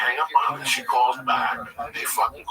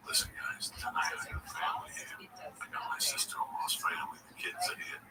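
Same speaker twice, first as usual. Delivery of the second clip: much softer, hushed imitation of the owner; quiet retold warning; confidential aside; 10 dB quieter than usual. Owner pulls comics aside.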